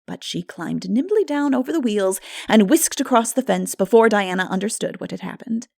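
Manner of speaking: normal talking voice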